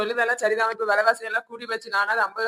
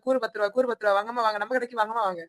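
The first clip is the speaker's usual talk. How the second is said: singsong street hawker. Acted. Vendor calling out to shoppers.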